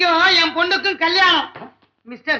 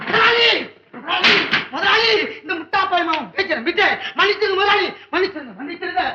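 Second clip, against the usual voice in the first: raised, wailing repeated begging; desperate pleading; 3 semitones higher than usual. Acted. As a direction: beg the bosses not to sack you. Clerk begs bosses for his job. (கெஞ்சிக் கதறும் குரல்)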